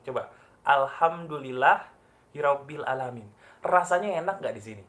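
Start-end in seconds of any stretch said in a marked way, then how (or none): 0.7-3.3 audible to your own ears. Shown as a demonstration. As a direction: say it out so your ears hear "Alhamdulillah". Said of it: "Katakan dengan suara yang kedengaran kuping kamu".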